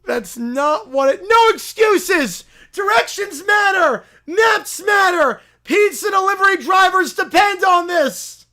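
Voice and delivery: pushy self-proclaimed prophet bellowing; loud holy crusader voice; zealous preacher. Acted. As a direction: barge in demanding converts. Preacher keeps ranting.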